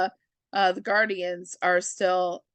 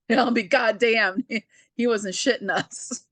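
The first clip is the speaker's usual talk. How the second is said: laughing dad impression. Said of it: "Papa Quinn".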